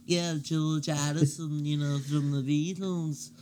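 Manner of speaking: slow, stuffy Scouse voice; impression of a singer. Mocking how the singer sounded, slow stuffy Scouse. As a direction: lightly do the singer with a cold. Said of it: "George always sounded like he had a cold".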